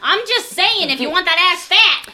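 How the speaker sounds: teasing. Real, not acted. Teasing about squats.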